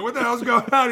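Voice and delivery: high, loud exasperated shout; mock angry yell. Coach yelling at the tryout thrower, high and loud. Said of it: "he's like".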